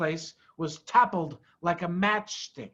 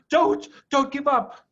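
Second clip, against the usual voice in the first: out of breath; 7 semitones higher, 6 dB louder than usual. A narrator's reading. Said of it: "panted Mister Fox".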